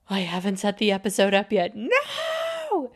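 remember too late, then wail the last word; sudden dismayed realization. Retold or imitated. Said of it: "all of a sudden, out of nowhere, I just went".

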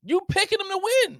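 very high-pitched disbelief; real, high incredulous challenge; incredulous question. Real, not acted. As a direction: squeal the question in astonishment. Disbelief at friend's prediction.

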